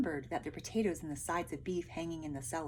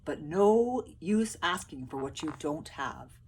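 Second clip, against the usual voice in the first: loud, wistful soldier; sly soldier sigh; 7 dB louder than usual. A narrator's reading. Soldiers hinting to the peasants, mock regret. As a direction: fake regret, loudly. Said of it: "said the soldiers".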